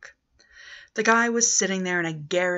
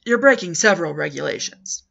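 louder, indignant objection; indignant protest; 8 dB louder than usual. Acted. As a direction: scold him about the rules, loudly. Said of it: "he said".

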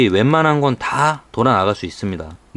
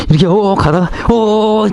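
alarmed cries; 9 semitones higher than usual. Acted. Mock losing control at speed.

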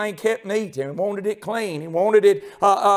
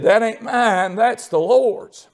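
higher, stronger, slowed quote; emphatic retelling; 3 semitones higher, 4 dB louder, slower than usual. Retold or imitated. Landlady correcting the tenant about the Lord's property, emphatic. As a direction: proclaim it as a ringing rebuke. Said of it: "She said".

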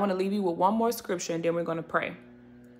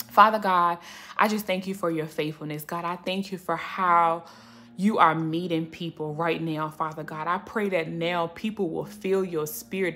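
prayer. Acted. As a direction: pray over the viewers, gently. Leads closing prayer.

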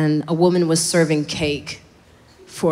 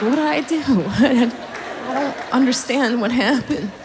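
confused guys; 4 semitones higher, slower than usual. Retold or imitated. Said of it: "they're like".

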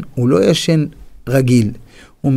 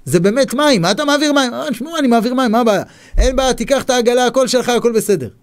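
higher, lively back-and-forth voices; guards surprised; 8 semitones higher, faster than usual. Acted. Guards tell the man to take his barrel, higher and quicker. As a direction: act out amazed border guards.

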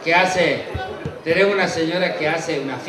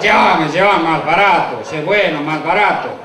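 slow, drawn-out acted begging; wheedling plea; 3 semitones lower, 4 dB louder, slower than usual. Stingy man haggling with the pilot, wheedling. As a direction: plead for a bargain, stretching the words.

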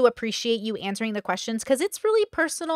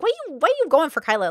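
retold challenge; 6 semitones higher, 3 dB louder, faster than usual. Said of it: "I was like".

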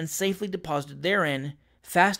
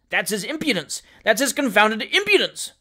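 indignant; 4 semitones higher than usual. Acted. Captain outraged at sleeping man.

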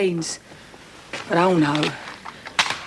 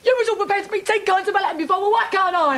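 high-pitched, agitated outburst; hysterical; 3 semitones higher than usual. Acted. Woman demanding revenge from the man, hysterical. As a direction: argue back frantically, pitch raised. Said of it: "You're hysterical".

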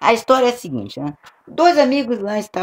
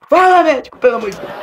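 desperate plea; 6 semitones higher, 4 dB louder, faster than usual. Retold or imitated. Friend pleading in joke.

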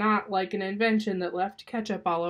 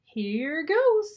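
raised, louder, drawn-out call; excited launch; 8 semitones higher, 7 dB louder than usual. Acted. Rosie starts her contraption, excited and raised. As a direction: kick it off with eager anticipation.

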